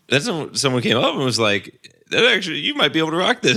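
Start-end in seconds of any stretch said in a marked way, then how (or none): 2.1-3.6 quick high encouraging voice. Retold or imitated. Stranger complimenting the skirt.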